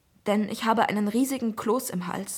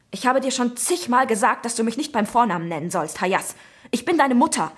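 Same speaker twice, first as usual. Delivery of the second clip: flaring up angrily; 2 semitones higher, 5 dB louder than usual. Acted. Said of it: "fuhr ich ihn aufbrausend an".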